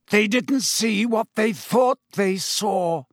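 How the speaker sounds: slow savage shout. A narrator's reading. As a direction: fling each word out in fury. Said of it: "said Black savagely".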